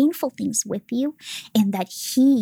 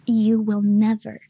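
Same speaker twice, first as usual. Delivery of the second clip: voice of God. Retold or imitated. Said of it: "He said".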